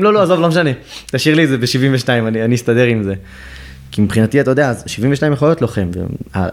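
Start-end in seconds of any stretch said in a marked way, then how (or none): 0.0-3.1 higher and louder, hurried brush-off; hasty backing off. Retold or imitated. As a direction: quickly wave it away, grabbing your papers. Hastily gathering papers, backing off.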